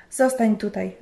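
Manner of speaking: a firm, lightly voiced order; commanding. Husband orders his wife to stay outside, firm command. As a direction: tell her firmly to stay put. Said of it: "rozkazał".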